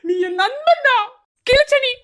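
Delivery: mock the so-called friend; bitter sneer. Bitterly mocking his friend's loyalty, half laughing.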